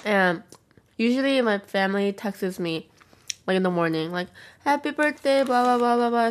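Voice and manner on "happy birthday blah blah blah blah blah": higher, singsong imitation of birthday wishes; singsong mimicry. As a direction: rattle off mock well-wishes in a raised voice. Mimics family's usual birthday texts.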